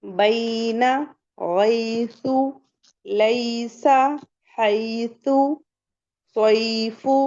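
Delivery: "बैना गैसु लैसा" one by one, ai gliding into a held i; correct leen reading. Shown as a demonstration. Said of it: "ऐसे आपको लीन के letters पढ़ने हैं".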